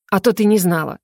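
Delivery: plain reading voice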